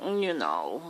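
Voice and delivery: a lightly affected burr on the word; put-on burr. Shown as a demonstration. He demonstrates the put-on polish of a doctor, mocking. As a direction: show the posh sound he has to put on. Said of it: "I gotta put a".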